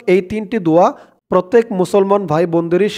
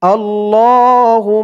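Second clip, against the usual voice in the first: slow recitation; slower than usual. Shown as a demonstration. Teacher joins the syllables for learners, slowly intoned. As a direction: draw the syllables out evenly.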